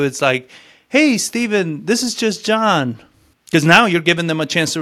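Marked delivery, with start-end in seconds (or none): 0.9-3.0 slow with pauses. Retold or imitated. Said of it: "I don't give too much of a pause where a lot of people do".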